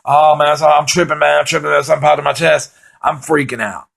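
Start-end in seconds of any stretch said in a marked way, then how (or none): 0.0-2.7 high, anxious repeating; half-laughing panic over his chest; imitating his own panic; panicky. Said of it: "I'm going".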